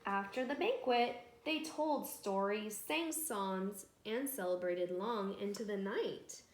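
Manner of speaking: lively read-aloud with voiced villagers; storytelling to children. A narrator's reading. Narrator telling children a village tale, bright storytelling. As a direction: read it like a bedtime story for kids.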